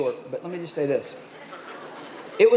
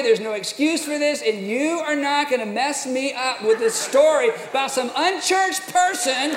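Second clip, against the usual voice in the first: louder, higher, indignant inner rant; inner angry rant; 4 semitones higher, 3 dB louder than usual. Retold or imitated. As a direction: vent the fury you rehearsed, half laughing. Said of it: "inside I'm going".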